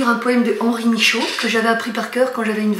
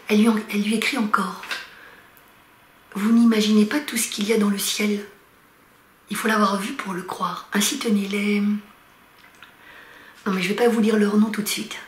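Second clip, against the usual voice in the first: measured poetry recital with long pauses between phrases; poem reading. Acted. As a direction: read it line by line, letting each phrase settle. Reads a poem aloud. (lecture de poème posée, entrecoupée de silences)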